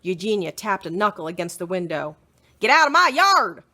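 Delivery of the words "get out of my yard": loud, higher angry yell; angry shout. Acted. Eugenia shouting at the pig through the window. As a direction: chase the pig off. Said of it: "she shouted at Mercy".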